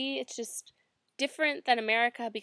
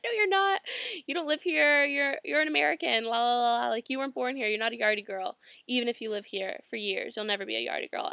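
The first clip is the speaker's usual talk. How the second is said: vendor going off. Retold or imitated. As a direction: shut down her claim firmly. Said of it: "he starts going off".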